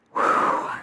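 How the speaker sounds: long blown-out whew; breathy whew. Real, not acted. Preacher catching breath after an impassioned run, breathy whew. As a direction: let the breath out after exertion.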